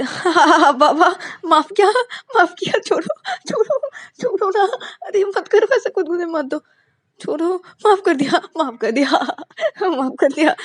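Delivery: high, loud giggling give-in; laughing surrender. Acted. Payal forgiving Ananya while being tickled, laughing. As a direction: forgive her through laughter. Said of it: "पायल बोलते".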